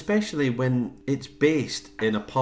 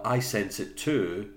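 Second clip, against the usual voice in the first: slow, drawn-out séance line; Helen; slower than usual. Retold or imitated. Co-host recalling Helen's séance line, slow light imitation. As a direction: stretch it out, lightly acted. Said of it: "it was Helen".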